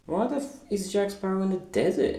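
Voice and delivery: high, baffled outcry at the film; sudden confused disbelief; baffled outburst. Retold or imitated. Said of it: "and I'm like".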